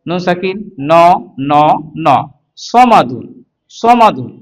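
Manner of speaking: measured syllable-by-syllable spelling chant; teacher's drawn-out drill delivery; recitation drill. Shown as a demonstration. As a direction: sound out each syllable, pausing for repetition. Spelling drill for Quran reading.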